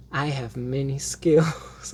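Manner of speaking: slow, savoured "I have many skills"; quoting Xena. Retold or imitated. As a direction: relish the line like Xena. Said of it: "Infamous Xena line".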